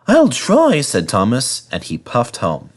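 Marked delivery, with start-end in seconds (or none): 0.1-0.8 small promise. Acted. Thomas promises meekly.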